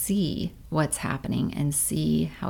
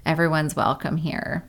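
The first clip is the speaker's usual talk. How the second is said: gentle welcome. Retold or imitated. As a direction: invite frustration to sit by the fire. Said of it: "and you say".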